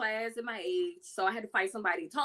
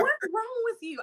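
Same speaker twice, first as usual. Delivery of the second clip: mock exasperated master; 13 semitones higher than usual. Master scolding.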